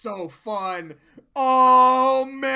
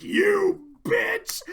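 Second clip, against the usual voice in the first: retold yell; 11 semitones higher, 5 dB louder than usual.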